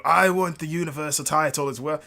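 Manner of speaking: put-on a failed Scottish accent; bad Scottish accent. Drew McIntyre demanding the title in a bad Scottish accent. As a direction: attempt Drew's Scottish accent badly. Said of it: "That's a horrible Scottish accent".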